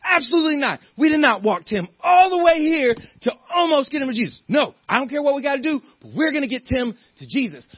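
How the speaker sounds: loud, emphatic refusal, high and firm; forceful outburst. Retold or imitated. Friend refusing to give up on Tim, shouting. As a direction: shout it down, won't hear of it. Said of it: "somebody spoke up and they were like".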